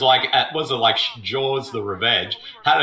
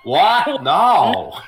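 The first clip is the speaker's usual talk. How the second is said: mock surprise; 3 dB louder than usual. Reacting to another shark.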